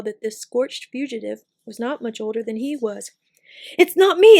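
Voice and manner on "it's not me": high, loud panicked shriek, rising on me; terrified shriek. A narrator's reading. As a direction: scream it out in terror. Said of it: "he shrieked".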